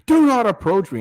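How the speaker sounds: high mock scream at a stranger; mocking the woman who screamed at him. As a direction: shriek the warning like a panicked woman. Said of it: "You're screaming at me".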